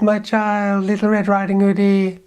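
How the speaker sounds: high, sweet fake-granny voice, sly underneath; wolf purring like a granny; wolf playing grandma. Wolf in bed, luring Red Riding Hood closer: high fake granny voice.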